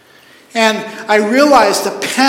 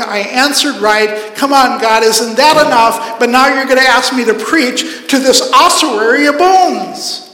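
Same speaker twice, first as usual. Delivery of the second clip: raised, mildly exasperated pleading; lightly acted protest; 4 semitones higher, 5 dB louder than usual. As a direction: play the prophet objecting, half comic and louder. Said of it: "Ezekiel's going".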